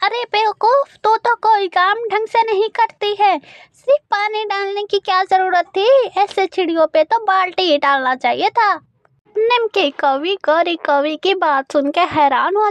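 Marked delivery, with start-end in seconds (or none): 0.0-8.7 scolding mother-in-law. Acted. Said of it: "उसे डांटती है".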